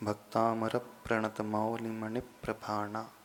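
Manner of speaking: slow, measured Sanskrit chant-like recitation; verse recitation. Shown as a demonstration. Teacher demonstrating a hymn line to students, slow recitation. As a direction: recite the verse slowly and evenly. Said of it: "शब्दों की भी अपनी एक ऊर्जा होती है".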